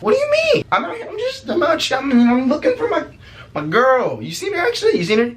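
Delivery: high-pitched flustered protest; squeaky mock innocence. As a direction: play innocent in a comic high voice. Feigning innocence to grandma.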